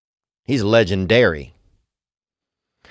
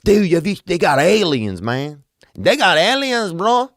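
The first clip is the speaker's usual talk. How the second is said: excited local dude; 8 semitones higher than usual. Retold or imitated. Locals voiced telling about aliens.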